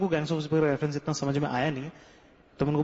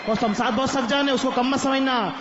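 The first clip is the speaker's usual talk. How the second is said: excited plot recap; 4 semitones higher than usual. Real, not acted. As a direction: blurt it out like a fan mid-movie. (Film की कहानी जोश में, ऊँची और तेज़ आवाज़ में)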